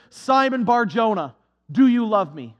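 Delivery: loud, searching question to Peter; Jesus calling out. Acted. Jesus asks Peter on the shore, a loud searching question. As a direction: call it out across the shore, pressing him.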